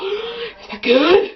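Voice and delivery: high, slow sarcastic question. Retold or imitated. Girl asking her mom after the pledge, sarcastic. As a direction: ask it with teen sarcasm.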